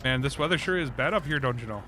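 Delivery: mock Midwestern small talk, vowels dragged out; Midwestern accent. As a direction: imitate a folksy Midwesterner chatting about the weather. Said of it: "that's all we talk about up here".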